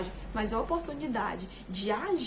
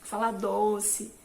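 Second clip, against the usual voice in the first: sweet speech; much slower than usual. Shown as a demonstration. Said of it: "falar agradável é assim".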